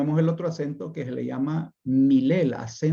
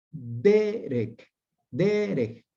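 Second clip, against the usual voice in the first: "derek" as DE-rek, lengthened first syllable; penultimate-syllable stress; much slower than usual. Shown as a demonstration. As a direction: demonstrate "derek" slowly, leaning on "de". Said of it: "va acentuado". («derek» con acento alargado en la primera sílaba: DÉ-rek)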